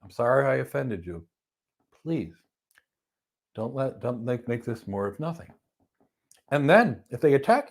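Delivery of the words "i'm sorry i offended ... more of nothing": softer, polite and calm apology. Shown as a demonstration. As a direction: defuse an angry driver gently. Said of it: "you can politely say to the person".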